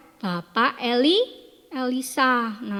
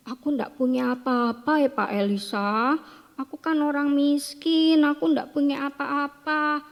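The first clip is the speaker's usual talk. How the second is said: helpless pleading; 4 semitones higher than usual. Acted. Widow tells Elisha she has nothing.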